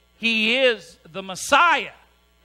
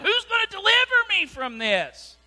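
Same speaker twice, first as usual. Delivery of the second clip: mock desperate yell; 11 semitones higher than usual. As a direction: wail it out like a plea for rescue. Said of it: "And then he yells out".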